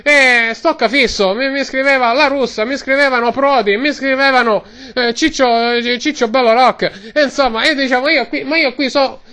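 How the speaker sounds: lightly voiced Roman street vendor; Roman-accented vendor rambling away; Roman ice-cream seller. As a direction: talk like a chatty Roman gelato man.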